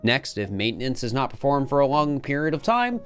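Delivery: measured, earnest document read; lore log narration. Acted. Program's creator confessing the backup plan, earnest narration. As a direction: read it aloud as a serious written confession.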